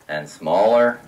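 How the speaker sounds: low, measured step down on "smaller"; voice shrinking. Shown as a demonstration. Pipes narrowing step by step, voice shrinks.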